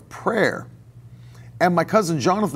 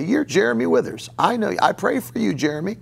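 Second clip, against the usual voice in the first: put-on old teacher voice; 5 semitones higher than usual. Professor tells a startled student he prays for him, lightly voiced. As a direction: gently tell the student you pray for him. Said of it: "And he would stop them and say".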